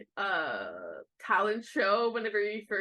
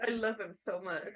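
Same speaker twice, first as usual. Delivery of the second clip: teary; 4 dB quieter than usual. Real, not acted. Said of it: "I wanna cry".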